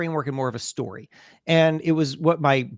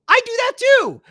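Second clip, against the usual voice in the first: much higher, louder mock inner voice; squeaked-up voice of your own thinking; inner thought; 7 dB louder than usual. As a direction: pipe it up high like a fan's private thought. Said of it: "I think".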